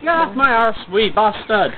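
strong Scottish accent. Real, not acted. Telling someone to get off, Scottish accent. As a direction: say it in a broad Scots accent. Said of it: "You sound well Scottish".

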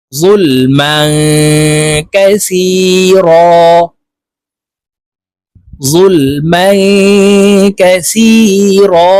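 যুলমান with its ending hidden in a long nasal hum; ikhfa ghunnah. Shown as a demonstration. Teacher demonstrating the hidden nasal, long hum ending যুলমান. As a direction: slowly chant যুলমান কাসীরা, humming before the k. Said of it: "মিমকে গুন্নার সহিত পড়ব".

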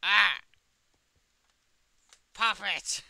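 sudden high yell of shock at being killed; startled yell. Real, not acted. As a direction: shriek the name as you are caught. Getting killed in game.

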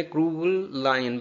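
क्रूअल लायन linked on a single L; no pause. Shown as a demonstration. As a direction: run क्रूअल into लायन without stopping. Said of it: "बगैर वक्फे के". (क्रूअल लायन बगैर वक्फे के)

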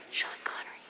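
unvoiced whisper; right in your ear. Real, not acted. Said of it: "let me whisper in your ear".

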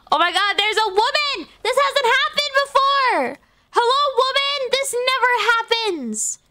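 giddy, rising yelps of surprise; excited squeal. Real, not acted. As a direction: gush like you can't believe it. Excited streamer spotting a woman customer.

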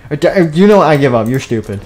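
high, loud frustrated burst. Acted. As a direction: throw up your hands. Frustrated outburst.

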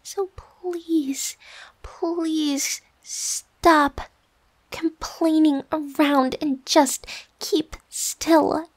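slow, drawn-out plea; weary pleading. Acted. Worn-out roommate begging the other to keep still, weary pleading. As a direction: beg wearily, leaning on each word. Tired roommate begs for quiet.

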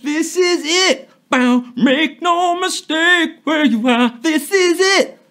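slow, ominous announcer tease; spooky movie trailer voice. Acted. Host teasing players with a spooky trailer voice. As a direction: loom over the players like a horror trailer.

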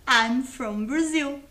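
slow loud teacher model. Shown as a demonstration. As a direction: model "I'm from Brazil" for repetition.

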